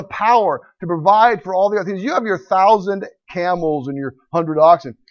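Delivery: overwhelm him with God's power; God's booming voice. Acted. Preacher voices God challenging Job.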